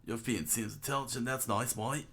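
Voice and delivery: put-on Australian accent; Aussie character voice at normal pitch; Fushi. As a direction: read it as a casual Aussie mate. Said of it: "We'll do Aussie for Fushi".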